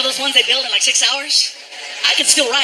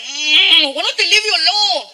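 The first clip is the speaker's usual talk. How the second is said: whiny Frankie; 6 semitones higher, 5 dB louder, slower than usual. Retold or imitated. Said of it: "He's like".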